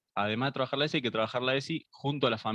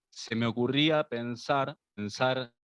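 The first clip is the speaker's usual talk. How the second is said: buffering stutter. Real, not acted. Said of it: "Se escucha entrecortado".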